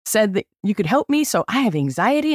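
high, sugary imitated plea; butter up the guide at the shack; sweet request. Asking the guide for help, sweet and high. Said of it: "And I was like".

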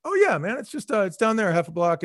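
high-pitched easygoing guy giving directions; retold friendly helpfulness. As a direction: act out a suddenly obliging stranger. Hostile guy turns helpful.

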